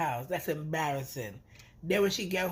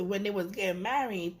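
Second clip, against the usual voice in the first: usual speaking voice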